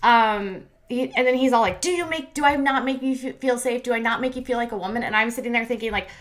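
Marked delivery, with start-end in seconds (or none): 1.8-5.0 the boyfriend's plea, pitched higher and hammed up; mock his needy question; a hint of a whiny boyfriend; mocking quote.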